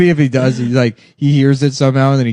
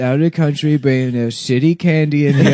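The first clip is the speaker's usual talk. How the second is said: lightly put-on, slurred impression voice; Donald Trump. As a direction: loose mock-politician voice. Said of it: "Trump with a retarded voice".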